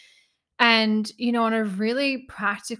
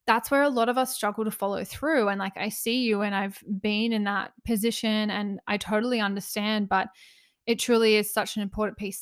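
out of breath. Real, not acted. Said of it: "I don't know why I'm getting so out of breath".

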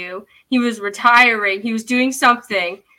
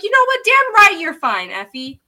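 emphatic agreement; 5 semitones higher than usual. Retold or imitated. Acting out her indignant cheer for Effie.

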